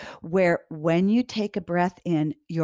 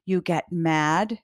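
gentle reassurance; 2 semitones higher than usual. Shown as a demonstration. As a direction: ease the child with a near-whisper. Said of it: "this is what you would say".

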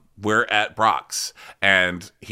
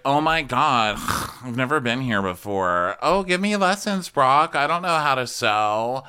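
lightly voiced gushing plea; mock gushing; 5 semitones higher than usual. Ariana asking Brock for sewing lessons, mock gushing. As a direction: beg sweetly for lessons. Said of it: "she's like".

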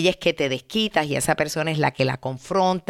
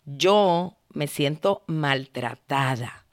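calm I-statement; 4 semitones lower, slower than usual. Shown as a demonstration. Showing the right way to a partner, slow and calm. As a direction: say it gently from yourself. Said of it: "En vez de decir".

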